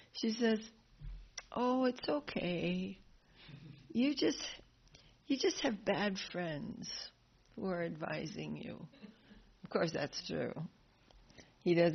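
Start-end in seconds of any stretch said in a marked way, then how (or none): 1.5-8.9 gentle comfort. Retold or imitated. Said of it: "Devaki's so gentle".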